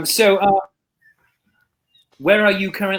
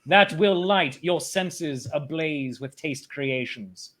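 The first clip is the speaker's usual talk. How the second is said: poem recital. Pretend. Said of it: "write a sonnet in ten minutes".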